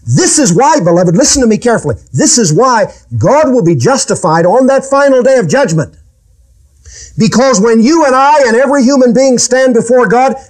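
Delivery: high-pitched, emphatic sermon delivery; urgent preaching. Real, not acted. Preacher warning listeners about the final day of judgment, urgent. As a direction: press the point on the congregation, pitch lifted.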